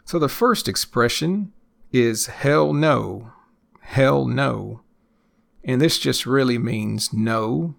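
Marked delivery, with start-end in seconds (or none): 2.3-4.8 "hell" punched, then "no" falling off; stress on hell. Shown as a demonstration. Teacher introduces the first expression to learners, stress on "hell". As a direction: hit "hell" hard, let "no" drop away. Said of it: "emphasis on that first word".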